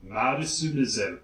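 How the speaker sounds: The band name with Japanese vowels; a Japanese-accented band name. Shown as a demonstration. Repeating the band name in a Japanese accent. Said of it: "with a Japanese accent".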